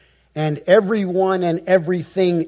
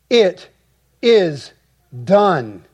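loud, high proclamation, one word at a time; loud voice from the throne; 4 semitones higher, 4 dB louder, much slower than usual. Acted. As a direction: declare it from the throne, each word set apart, stepping down in pitch. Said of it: "a loud voice came out of the temple".

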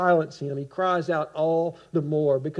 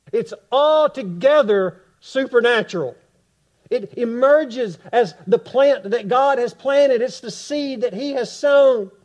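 raised, rising preacher's voice; fervent preaching; 5 semitones higher, 5 dB louder than usual. Acted. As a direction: preach it out to the congregation. Preaching at full force.

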